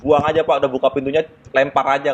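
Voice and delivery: goading assistant. Retold or imitated. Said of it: "manas-manasin si konektor".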